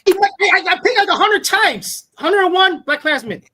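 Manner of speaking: high, loud exasperated outburst; exasperated protest. Real, not acted. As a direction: protest loudly, pitch shooting up. Protests he already picked repeatedly.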